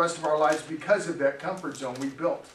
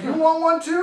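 high, loud mock-stern mom; mom's mock threat; 8 semitones higher, 5 dB louder than usual. Mom glaring at the pastor, high and loud mock-stern threat. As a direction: tease him with a threat. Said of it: "she looked at me like".

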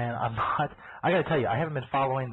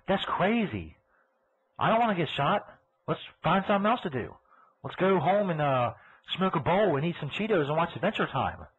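lightly acted alarm, pitched higher; higher, animated voice of a spooked poster; mock social-media poster; 5 semitones higher than usual. Host voicing flash mobbers posting online, mock alarm. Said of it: "on their little Twitters and their Facebooks like".

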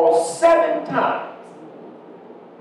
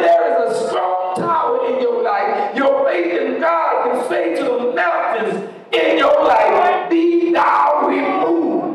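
preaching climax; 3 semitones higher than usual. Acted.

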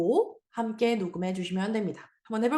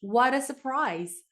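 slow model reading; much slower than usual. Shown as a demonstration. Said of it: "한번 해볼까요?".

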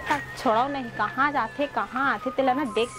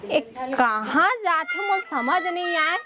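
angry scolding wife; 4 semitones lower than usual. Acted. Wife threatens her drunk husband.

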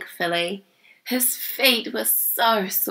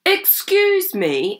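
much higher, slow interruption; interrupting; 12 semitones higher, 3 dB louder, much slower than usual. A narrator's reading. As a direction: cut in high and drawn out. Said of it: "interrupted Grandpa".

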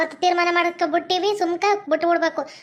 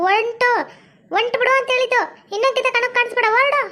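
higher, sharp order to leave; stern mother-in-law ordering her out; angry order; 5 semitones higher than usual. Acted. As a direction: drive her out of the house.

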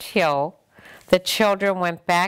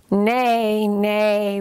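whinnying horse; 3 semitones higher than usual. Acted. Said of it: "whinnied the horse".

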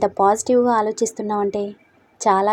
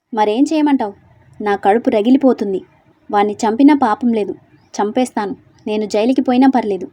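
furious vow; 4 dB louder than usual. Acted. Gauri raging, vows to kill.

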